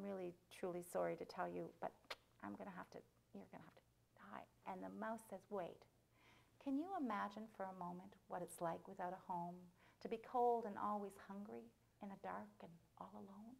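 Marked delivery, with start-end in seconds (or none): 5.5-13.5 soft, forlorn pleading, fading away; pitiful plea. Acted. Homeless mouse pleading with the boy, soft and forlorn. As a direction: beg softly for sympathy.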